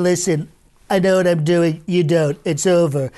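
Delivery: lightly voiced, confident Trump; Trump confidence. Shown as a demonstration. Demonstrating Trump's angry confidence, a light cocky Trump voice. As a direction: assert it like a hint of Trump. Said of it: "this unique confidence that he has".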